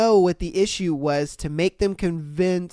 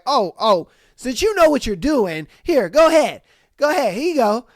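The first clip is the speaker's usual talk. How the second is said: sarcastic go ahead; 5 semitones higher, 4 dB louder than usual. Pretend. Mock handing over the job.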